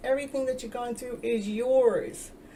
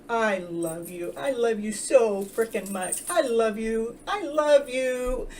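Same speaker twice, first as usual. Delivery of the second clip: loving reassurance; slower than usual. Shown as a demonstration. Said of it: "And tell that child".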